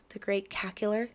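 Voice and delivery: lightly cackling witch voice on Cackler; Great Cackler in a hint of a witch voice; Wicked Witch voice. Shown as a demonstration. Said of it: "trying to sound like the Wicked Witch of the West".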